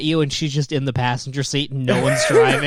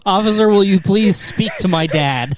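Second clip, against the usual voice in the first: laughing mock plea; 3 semitones higher, 3 dB louder than usual.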